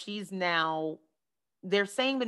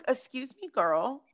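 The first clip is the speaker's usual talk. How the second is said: high-pitched sassy objection; mock indignation; 4 semitones higher, slower than usual. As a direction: take playful offence, voice jumping up.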